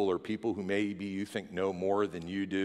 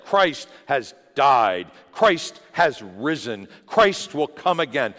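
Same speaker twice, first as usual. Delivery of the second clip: louder, slow proclamation of the creed; proclaimed creed; 5 semitones higher, 10 dB louder, slower than usual. Retold or imitated. Believers through the ages proclaiming, slow and bold. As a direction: declare it slowly and boldly. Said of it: "gathered and said".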